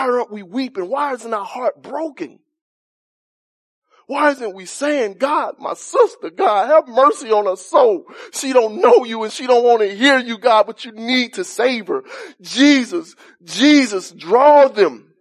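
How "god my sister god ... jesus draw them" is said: earnest plea to God, building in force; pleading prayer. Acted. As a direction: beg God for your sister's soul, pushing harder to the end. Acted pleading prayer for a sister.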